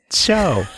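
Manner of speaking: film-noir American "so" said with a "sh"; "so" as "show". Acted. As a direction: slur "so" into "sho". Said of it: "It's not show".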